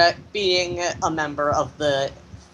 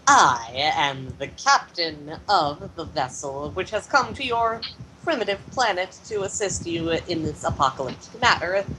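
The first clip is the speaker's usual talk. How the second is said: pompous captain. Acted. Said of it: "Kirk actually says".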